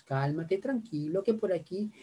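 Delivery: "Cálmate, tranquilo" dicho suave y sereno; tono calmado. Shown as a demonstration. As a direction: tranquiliza al hijo con voz suave. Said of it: "el tono de voz". (padre calmando al hijo con voz suave y tranquila)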